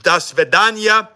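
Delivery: slow, hammed-up Russian accent, rising at the goodbye; slow fake Russian accent, played for laughs. Shown as a demonstration. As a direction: show off a jokey Russian accent. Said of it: "Who does better Russian accent?".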